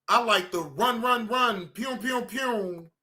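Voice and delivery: run pew chant. Shown as a demonstration. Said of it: "people like that".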